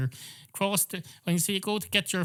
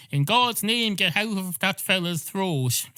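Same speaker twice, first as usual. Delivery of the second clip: solemn exorcist; 7 semitones higher, 3 dB louder than usual. Retold or imitated. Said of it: "invoking the name of your god and saying".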